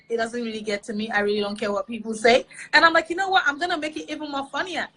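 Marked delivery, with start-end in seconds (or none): 3.1-4.9 higher-pitched, mischievous resolve; retold playful defiance. Comedian answering people who bashed the videos, playful defiance. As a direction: re-enact a cheeky comeback.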